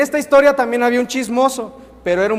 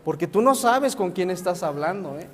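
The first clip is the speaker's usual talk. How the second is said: arrogant brush-off; 3 semitones lower, 4 dB quieter than usual. Acted. Donkey boasting to his mother.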